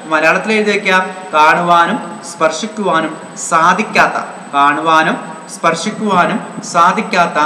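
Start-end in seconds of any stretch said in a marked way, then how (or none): 1.3-7.4 slow, measured dictation for note-taking. Real, not acted. Teacher has students write it down in Malayalam, slow dictation. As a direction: dictate it slowly, phrase by phrase.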